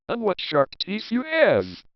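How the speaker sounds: high, wide-eyed exclamation; a child gasping in wonder; amazed girl. A narrator's reading. Girl marvels at grandmother's eyes, pitched high.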